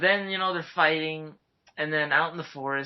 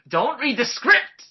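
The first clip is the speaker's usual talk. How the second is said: mock scolding; 10 semitones higher, 6 dB louder, slower than usual.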